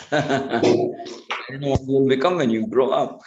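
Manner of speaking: put-on mother warning her mischievous boy, lightly scolding; stern mother. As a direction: wag a finger at a naughty son. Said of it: "This is why he's saying all this".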